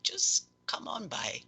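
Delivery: high, airy character voice; gracious patron, pitched far up; grateful patron. Acted. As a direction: thank them in a high, whispery voice. Game master voices welcoming patron.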